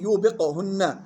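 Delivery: slow يوبقهن with a bounced qaf; qalqala on qaf. Shown as a demonstration. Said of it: "يلاحظ قلقلة القاف". (يوبقهن بقلقلة القاف)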